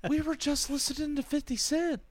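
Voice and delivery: put-on high incredulous reply to rap-loving teens; incredulous retort. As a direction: point out the irony in a high mock voice. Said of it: "And I'm like".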